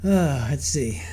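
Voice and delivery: whispered to herself; whispering. Real, not acted. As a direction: breathe it out under your breath. Muttering to self.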